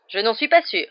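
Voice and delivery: amused, loud disagreement; little chuckle. A narrator's reading. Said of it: "dit Hagrid avec un petit rire".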